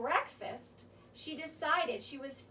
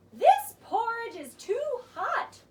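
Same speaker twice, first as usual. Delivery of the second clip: higher, louder startled exclaim; 6 semitones higher, 7 dB louder than usual. Acted. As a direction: blurt it out, surprised at the heat. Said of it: "she exclaimed".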